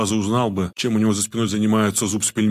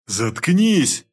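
much higher, loud bellow; roaring at her; 6 semitones higher, 3 dB louder than usual. A narrator's reading. Pelmen roars at his babbling wife, furious. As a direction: roar her into silence. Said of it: "взревел Пельмень".

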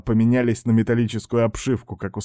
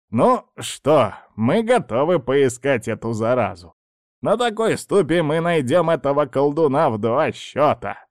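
proud witch; 4 semitones higher than usual. Acted. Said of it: "с гордостью сказала".

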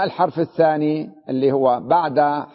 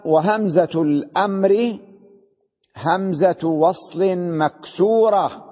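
slow, deliberate quoting of the book; reading the text aloud; slower than usual. Retold or imitated. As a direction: read the rule out word by word, slowly. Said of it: "قال". (قراءة متأنية لنص الكتاب)

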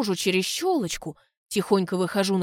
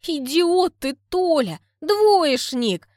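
higher, louder scolding shout; angry insult; 7 semitones higher, 6 dB louder, much slower than usual. Acted. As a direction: yell the insult at him. Lyuda insults him.

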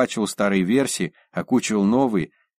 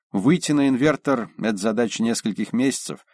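ordinary delivery

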